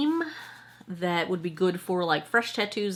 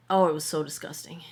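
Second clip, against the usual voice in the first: whisper; 4 semitones lower, faster than usual. Real, not acted. Grossed out by contaminated jars.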